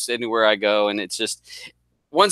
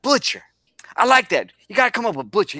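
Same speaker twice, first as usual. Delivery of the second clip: imitating a Boston clan leader, much higher; a light Boston voice, pitched up high; Boston accent; 7 semitones higher than usual. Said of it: "And he was from Boston".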